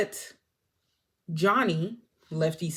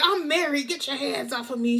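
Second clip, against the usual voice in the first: mock flustered protest; 7 semitones higher than usual. Vincent protests.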